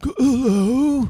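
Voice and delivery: mock English accent, pitched high; hammed-up, high English accent; bad English accent. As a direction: imitate an actor's poor English accent. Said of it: "he did the English accent in Dracula".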